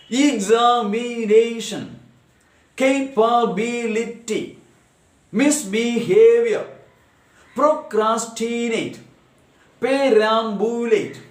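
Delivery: high, slow list with every syllable separated. Shown as a demonstration. Teacher reading polysyllabic examples, syllable by syllable. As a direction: sound out each long word beat by beat. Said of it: "Listen, some polysyllabic words".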